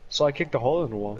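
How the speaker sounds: quick, understated imitation of a friend; so calmly. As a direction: toss off the confession matter-of-factly. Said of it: "he says it so calmly, like, he was mad".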